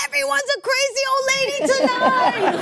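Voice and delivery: high, mock-cheerful neighbor voice; lightly voiced gleeful neighbor; downstairs neighbor. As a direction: call up joyfully, high. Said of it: "she goes".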